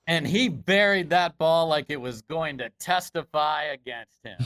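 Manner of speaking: sports commentator calling a big shot; a hint of broadcast announcer. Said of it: "You gotta do your announcer voice".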